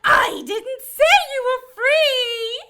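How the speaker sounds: angry shout. Acted. Cherub snaps at Gabriella for demanding release, angry shout. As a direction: cut her off with a furious shout. Council cherub rebukes captive archangel.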